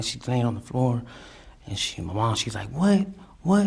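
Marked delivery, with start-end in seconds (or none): 2.7-3.7 high, loud startled "What?"; mom's disbelief, pitched way up; shocked what. Retold or imitated. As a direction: blurt it, stunned, pitch leaping upward. Mom shocked at the news.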